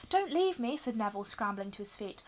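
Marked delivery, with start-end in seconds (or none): 0.1-0.8 high, loud, anxious plea; pleading. A narrator's reading. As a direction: beg anxiously with the voice pitched up. Neville begs not to be left.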